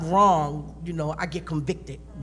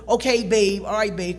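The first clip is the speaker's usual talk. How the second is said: mock placating husband; 3 semitones higher, 6 dB louder than usual.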